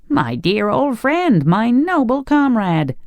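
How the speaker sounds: high, slow, delighted greeting; joyful cry. A narrator's reading. Tin Woodman embracing his old friend, joyful cry. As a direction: cry it out high, savouring each word. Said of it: "cried the Tin Woodman joyfully".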